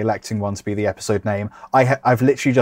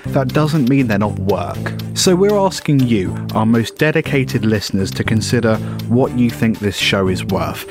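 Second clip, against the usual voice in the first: upbeat advert voiceover; ad read. Acted. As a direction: read it like a podcast ad. End-of-show advert read.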